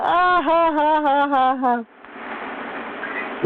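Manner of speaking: high staged cackle of laughter; acted laugh. Shown as a demonstration. Showing viewers the crying-laughing emoji, high staged laugh. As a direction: act out the tears-of-joy emoji laugh. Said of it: "You ever laugh like that?".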